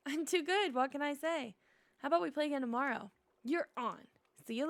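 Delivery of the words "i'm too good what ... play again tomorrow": playful little show-off; cocky critter voice. Acted. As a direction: tease your friend proudly. Critter boasts in dialogue.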